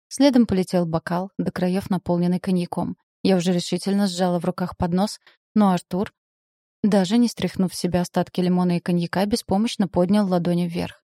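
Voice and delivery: usual speaking voice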